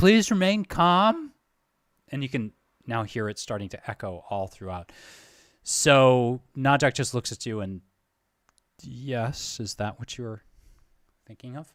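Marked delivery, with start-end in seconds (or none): 0.0-1.3 very high, cracking voice of green recruit. A fresh, wet-behind-the-ears recruit makes announcements that echo all throughout, with a cracking voice. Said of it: "recruit with a with a cracking voice makes announcements".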